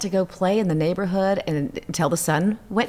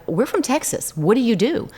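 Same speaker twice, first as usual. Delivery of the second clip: tag; 5 semitones higher than usual. Retold or imitated. Frantic call to front desk.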